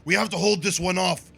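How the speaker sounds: urgent warrior cry. Acted. Fighter running past Logain, urging the others to hold. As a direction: shout it as a knight rushing in. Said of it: "and I go".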